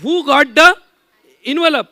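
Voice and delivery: high, loud question to the crowd; loud showman call. Shown as a demonstration. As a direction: call it out to the whole hall. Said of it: "ऐसे पूछूंगा।". (जोर से ऊँची आवाज़ में पुकारना)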